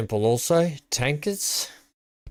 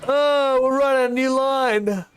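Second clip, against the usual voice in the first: high cutesy voice; 11 semitones higher, 3 dB louder than usual. Pretend. Greeting a passenger on the bus.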